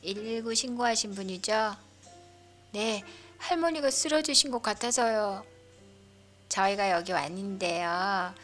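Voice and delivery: loud, brisk rescue worker; paramedic voice. Acted. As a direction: explain the mishap matter-of-factly. Paramedic speaks on arrival.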